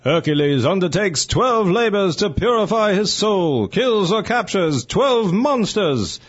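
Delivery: dramatic vintage newsreel narration; old newsreel. Pretend. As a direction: read it like a 1940s newsreel announcer. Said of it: "There's more to this story".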